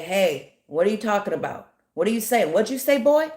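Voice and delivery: imitated intimidating challenge, rising in pitch; mock threat. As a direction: act out someone daring them to repeat it. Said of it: "could threaten you".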